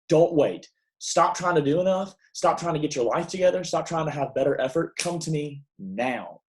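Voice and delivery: insistent plea, piling up the stops; pressing, urgent appeal. Retold or imitated. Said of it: "it's kind of urgent".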